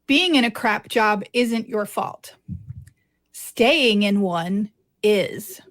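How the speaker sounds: slow, deliberate quote reading; emphatic quote reading. Real, not acted. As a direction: read the quote out slowly, letting it land. Reading a book quote aloud.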